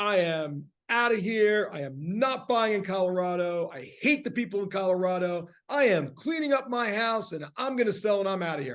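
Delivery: put-on furious woman's voice. Retelling a woman's call with a human assistant, imitating an angry woman. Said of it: "And she's just angry".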